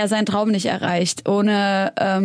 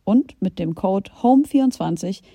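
ad read. Acted. Sponsored Taxfix ad read.

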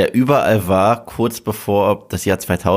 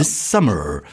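American movie trailer voice. Shown as a demonstration. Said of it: "das ist die amerikanische".

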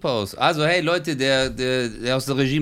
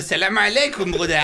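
put-on Arabic accent in German; 6 semitones higher than usual. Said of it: "Oder wie er sagen würde".

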